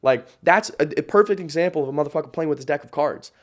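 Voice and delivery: ordinary talk, nothing marked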